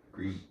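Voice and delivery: "street" pronounced "skreet". Shown as a demonstration. Host showing a word she can't say, "street" as "skreet". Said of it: "And I can't say".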